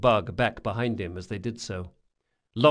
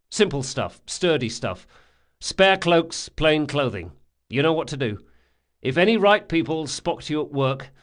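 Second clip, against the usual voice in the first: brisk, lightly voiced ringleader; a touch of a commanding schemer; gang leader giving orders; 4 semitones higher, 4 dB louder than usual. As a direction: lay out the plan, lightly in command. Locke gives the gang orders.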